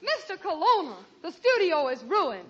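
mildly hammed-up alarm, up close; alarmed announcement. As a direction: burst in with dramatic bad news. Secretary bursts in with disaster.

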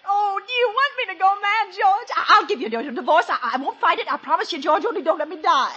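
panicked, pleading and breathless; begging in rising panic; hysterical. Acted. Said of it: "Leonora, you're hysterical".

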